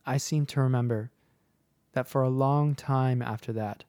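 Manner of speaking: measured, reflective storytelling with pauses; story narration. A narrator's reading. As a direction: read it as a listener's childhood memory. Reads a listener's story.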